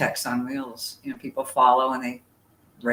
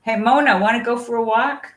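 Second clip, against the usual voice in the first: higher, louder sing-song pet talk in dog voice; 8 semitones higher, 7 dB louder than usual. Real, not acted. To her dog Mona, offering a walk, pet voice.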